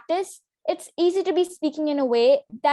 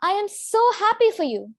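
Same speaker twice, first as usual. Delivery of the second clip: raised, excited pitch; bright high-pitched delight; 5 semitones higher than usual. Shown as a demonstration. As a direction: lift the whole line up high with excitement. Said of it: "With a high pitch, it sounds like".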